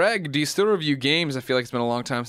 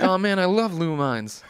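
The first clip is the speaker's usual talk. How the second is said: retold enthusiasm; 5 semitones higher, slower than usual. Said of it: "I was like".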